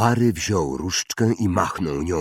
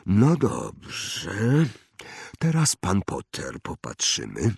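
slow, higher wandmaker voice; eccentric old wandmaker, musing; 3 semitones higher, slower than usual. Acted. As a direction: muse slowly, drawing out words with rises and falls. (ekscentryczny wytwórca różdżek, powolna zaduma)

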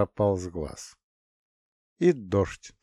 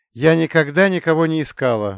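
louder, higher protest; 7 semitones higher, 8 dB louder than usual. A narrator's reading. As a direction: push back hard. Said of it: "воспротивилась девушка". (громкий протест, выше)

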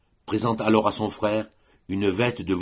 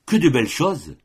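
higher and louder, a glad cry over the gifts; delighted exclamation; 6 semitones higher, 5 dB louder than usual. A narrator's reading. Colomba sees her brother's presents, delighted cry. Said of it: "s'écria Colomba".

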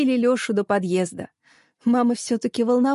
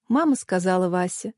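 ordinary delivery

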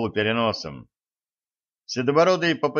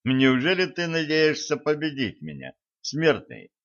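mocking; 3 semitones higher than usual. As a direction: sneer at the mortal. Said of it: "насмешливо спросил".

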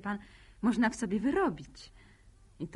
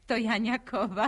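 laughing; 5 dB louder than usual. Acted. Teasing reveal, laughing.

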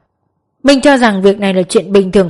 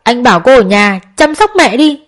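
high, loud furious scolding; loud yell; 7 semitones higher, 4 dB louder than usual. A narrator's reading. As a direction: yell at the sister, finger in her face. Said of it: "chỉ tay vào mặt quát lớn". (quát lớn giận dữ)

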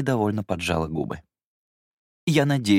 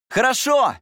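high, loud call back; shouted reply; 7 dB louder, slower than usual. Acted. Young master shouting back to the governess, loud. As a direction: shout it across the lawn. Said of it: "крикнул я".

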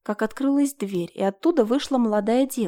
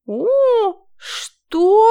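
very high, loud indignant shriek; outraged high-pitched what; flaring up; 12 semitones higher, 8 dB louder than usual. A narrator's reading. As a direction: flare up in outrage. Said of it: "взвилась Марина".

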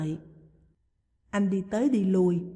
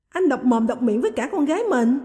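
louder and higher, flaring up in offence; indignant outburst; 4 semitones higher, 6 dB louder than usual. A narrator's reading. Bà Lan, stung by her brother's harsh words, flaring up loudly. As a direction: shout back as if stung. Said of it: "Bà Lan nhảy dựng".

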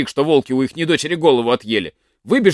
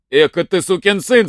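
shouted curse; 4 semitones higher than usual. Acted. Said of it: "закричал старик".

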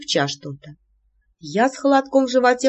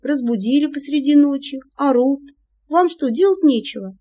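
indignant; 6 semitones higher, 3 dB louder than usual. Acted. Woken heroine scolds friends.

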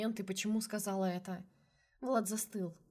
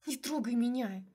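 hissed; 3 semitones higher than usual. A narrator's reading. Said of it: "шипела я".

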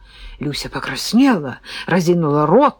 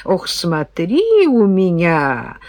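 put-on threatening old man; much slower than usual. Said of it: "пригрозил сухоньким кулачком дедок".

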